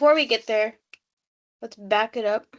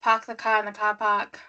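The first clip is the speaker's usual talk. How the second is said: mock Boston catchphrase; playful Boston accent. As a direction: imitate a Bostonian, dropping the r's. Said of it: "asked to do a Boston accent".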